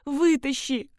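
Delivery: high pleading calls from below; shouting. Acted. Trapped woman shouts up to her rescuer, pleading. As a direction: beg to be pulled out. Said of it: "закричала".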